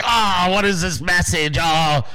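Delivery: exaggerated groaning dismay, imitated; lightly hammed-up fretting; mock meltdown. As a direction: mimic an overwrought TV host. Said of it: "had a fucking meltdown on his show".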